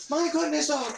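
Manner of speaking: high, loud exasperated yell; yelling at dog. Real, not acted. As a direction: shout over the barking dog.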